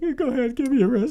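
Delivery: high, sing-song mock Alaskan accent. A local giving permission, in a mock Alaskan accent. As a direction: put on a hammed-up Alaskan accent. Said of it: "That's a great Alaskan accent".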